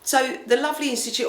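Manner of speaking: wheezy, short of breath. Real, not acted. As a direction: speak through a wheezy chest. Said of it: "Oh, I'm wheezy".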